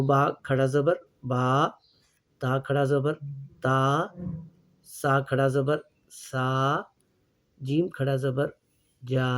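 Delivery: slow drill, each letter with a drawn-out final vowel; reading the chart. Shown as a demonstration. Teacher reading the whole chart aloud for students. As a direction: read the row letter by letter, stretching each ending. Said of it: "मैं ये पूरी तख्ती आपके लिए पढ़े देता हूँ".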